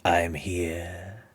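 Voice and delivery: lightly voiced sinister villain; Palpatine. Unseen villain answers the player, lightly voiced menace. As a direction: draw it out like a lurking, disembodied presence. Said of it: "it's the Emperor".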